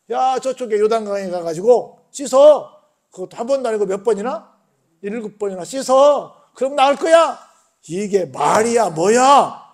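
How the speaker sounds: a touch of offended indignation, rising toward the end; mild mock anger. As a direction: retell his outrage half-acted. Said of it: "하고는 막 화가 났습니다".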